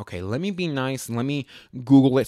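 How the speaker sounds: ordinary talk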